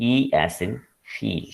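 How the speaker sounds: E held long, as in feel; long vowel in E and feel. Shown as a demonstration. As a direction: lengthen the E, then feel. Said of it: "the longer form of".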